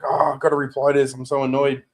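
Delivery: fast, a touch of huffy annoyance; lightly hammed-up grumble, sped up; mock stroppy client. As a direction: imitate an annoyed client griping, quickly. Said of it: "he's getting all stroppy".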